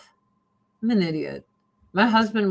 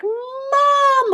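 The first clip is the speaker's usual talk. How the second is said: high, loud, drawn-out mock cry; dog crying out; 5 dB louder than usual. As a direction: cry out like a dog desperate for mom. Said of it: "she cried for me".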